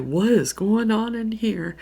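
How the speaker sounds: loud, high playful entrance line; mock-surprised call. Surprises friend in break room.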